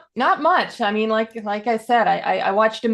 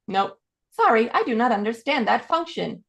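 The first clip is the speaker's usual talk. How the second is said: lightly imitated elevator system, pitched up; automated voice; 4 semitones higher than usual. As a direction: answer like a voice-recognition machine.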